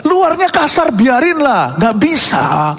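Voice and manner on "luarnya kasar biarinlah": mock his dismissive excuse; stubborn husband. (mengejek suami keras kepala)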